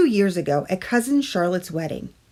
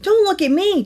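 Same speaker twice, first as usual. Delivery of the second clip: louder, higher, said while chewing; 12 semitones higher, 6 dB louder than usual. Acted. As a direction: talk through a mouthful of candy. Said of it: "chewed Stuart".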